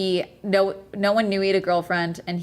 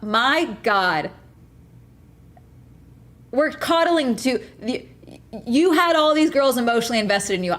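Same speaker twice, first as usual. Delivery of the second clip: irritated rant; 3 semitones higher than usual. Real, not acted. Streamer scolding Sykkuno over his messages, furious rant. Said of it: "I'm fucking irritated".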